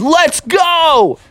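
high-pitched rallying yell; excited, hurried cry; urgent shout. Acted. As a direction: urge everyone to run. Friends fleeing the dragon.

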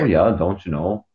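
put-on lightly done Yooper accent; a hint of Upper Peninsula Yooper in the voice; imitated Yooper accent. Recalling the accent picked up in the U P, mild Yooper accent. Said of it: "like the U-, Uper accent".

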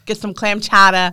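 chowder as chowdah, R dropped; dropping the r. Shown as a demonstration. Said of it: "dropping the R's".

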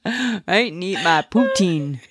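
hammed-up small-town Ontario accent; exaggerated Canadian accent. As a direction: put on a Canadian ABOOT voice. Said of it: "you don't even say a boot".

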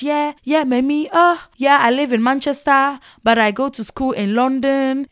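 a mild mock of a boaster name-dropping; boastful show-off. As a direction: preen like a braggart. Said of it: "they just be boasting".

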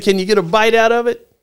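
quick, bright coaxing; coaxing director. Retold or imitated. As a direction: egg a kid on cheerfully. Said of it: "He said".

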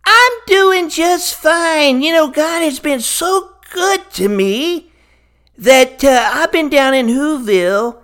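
a cheery Grinch greeting his hosts; Grinch character voice. Acted. Host welcomes the Grinch, who answers in a lightly put-on Grinch voice. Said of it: "Hello, Mister Grinch".

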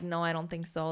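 put-on soft, hushed kid's aside; hushed, keeping it from the lady next to them; retold whisper. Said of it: "we're, like, whispering".

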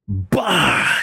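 sudden "bah" sound effect; vocalised hit; imitated impact. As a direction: punch out one burst for the blow.

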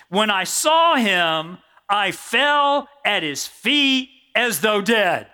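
slow, grave reading; slow scripture reading. Acted. Preacher reading John falling before Jesus, slow and grave. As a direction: let the words fall heavily.

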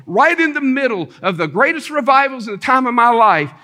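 high, sweeping pulpit cadence; fervent preaching. Real, not acted. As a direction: build the testimony phrase by phrase. Preaching summary of revival.

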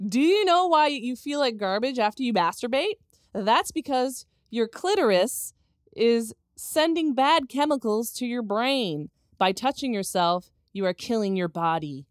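slow, emphatic reading with drawn-out key words; mock-solemn scolding read. Host reading a scolding post to co-host, slow and mock-solemn. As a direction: read it like a stern lecture, deliberately.

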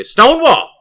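loud, high imitated dice-roll shout; rolling battle cry. Friendly opponent rolling dice at the table, loud high imitated shout. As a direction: holler it like a catchphrase over the dice. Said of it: "when he rolled his dice, is he'd say".

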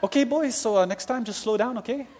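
laughing officer. Retold or imitated. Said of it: "He goes".

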